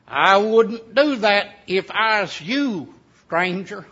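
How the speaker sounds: put-on slow, drawn-out warning from a wiry old mountain man; slow mountaineer warning. Old mountaineer warns a trespasser.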